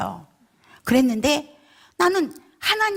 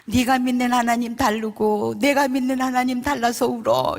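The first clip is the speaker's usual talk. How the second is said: imitating a crying sister, held on one note; mild mock wail; retold tearful lament; 3 semitones higher than usual. Sister crying over their different Gods, lightly acted wail. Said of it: "그러면서 울어요".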